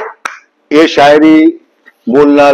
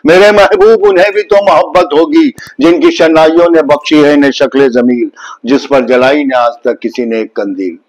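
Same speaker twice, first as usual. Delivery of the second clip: poem recital. Shown as a demonstration. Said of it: "Javed Akhtar साहब का एक है".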